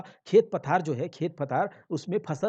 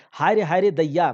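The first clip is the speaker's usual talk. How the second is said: mild lament; 8 dB louder than usual. Acted. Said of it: "अपने दुहाई देने लगती है".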